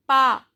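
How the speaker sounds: "Pas" said as "pa"; "Pas" with the S dropped; silent final S. Shown as a demonstration. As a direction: say "Pas" ending on the vowel. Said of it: "S is silent".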